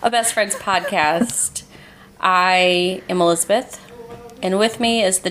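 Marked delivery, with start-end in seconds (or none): 0.0-1.6 whispered. Acted. Host whispers the podcast tagline to her listeners. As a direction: breathe the tagline out in a hush.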